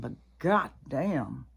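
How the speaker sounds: unvoiced exasperated whisper. Real, not acted. Whispering to viewers about Kamala in disbelief. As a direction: hush it like a disgusted aside.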